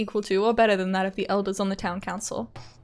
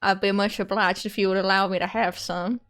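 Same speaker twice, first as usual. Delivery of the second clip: horrible Oishi voice. Acted. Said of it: "the horrible voice I do for him".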